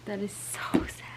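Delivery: hushed and heartbroken; sad whisper. Real, not acted. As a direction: whisper it, close to tears. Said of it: "I'm gonna cry".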